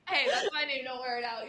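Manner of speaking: joking laugh. Retold or imitated. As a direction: tease through a laugh. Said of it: "And I was like".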